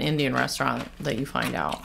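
chip at the lips; eating while speaking; biting a chip while talking. Real, not acted. Seen 0: Woman talks holding chip, then brings it to her lips mid-sentence.

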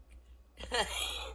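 short breathy chuckle in character; acted little chuckle before replying. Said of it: "he's chuckling".

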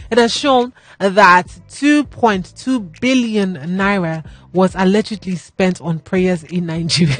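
slow, holding back laughter; trying not to laugh. Real, not acted. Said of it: "my mouth is doing happy".

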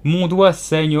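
high-pitched acted wail; pained cry. A narrator's reading. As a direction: cry out over a hurt finger. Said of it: "Ses cris ressemblaient si exactement au sifflet".

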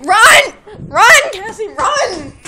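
yelling run at her sister; shouting. Real, not acted. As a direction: shout it out while laughing. Sibling chase, calling out.

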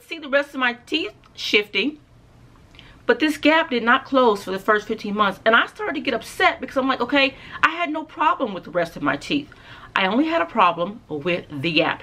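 talking with lip pulled down; finger held at mouth. Real, not acted. Seen 1: Finger at mouth pulls lower lip down, brief pause 6.7-9.1s.

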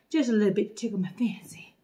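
soft unvoiced whisper. Real, not acted. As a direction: whisper it like a secret treat. Playful whisper while pouring.

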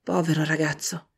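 pena per sé. A narrator's reading. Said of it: "esclamò provando una gran pena".

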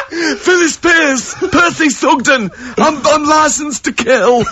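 laughing. Real, not acted. Laughing, listing impressions to do.

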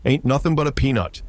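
high ringing battle cry; unison yell. Acted. Warriors saluting their idol, yelling in unison. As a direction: yell it out like a war chant. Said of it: "in perfect unison yelled out".

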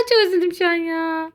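laughing through mock sorrow. Real, not acted. Gamer laughing at his own loss, mock sad. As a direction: fake sadness cracking into a laugh.

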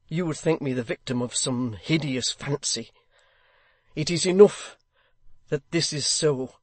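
a man troubled night and day; altered, emotional voice. Acted. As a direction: Haredale pouring out his torment. Haredale's troubled speech.

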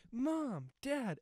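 high, drawn-out movie cry to Mom and Dad; calling out to parents. Retold or imitated. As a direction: imitate a son hailing his parents. Retold movie son calling parents.

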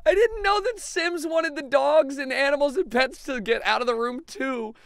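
amused, half-crying laugh; laughing while talking. Real, not acted. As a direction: talk through a fit of giggles. Amused disbelief at game.

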